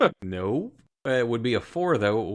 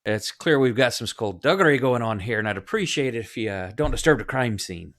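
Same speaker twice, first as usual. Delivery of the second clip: greeting; 3 semitones higher, 4 dB louder than usual. Acted. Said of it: "He's like".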